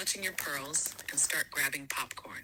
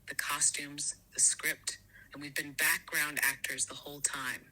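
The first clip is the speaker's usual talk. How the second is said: breathy hushed whisper, voiceless. Acted. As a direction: lean in and whisper it like a secret. Whispered list.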